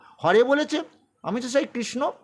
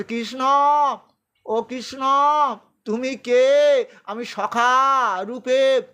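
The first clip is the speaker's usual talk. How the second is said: pleading Arjuna; 5 semitones higher, 4 dB louder, much slower than usual. Acted. Arjuna weeping calls Krishna.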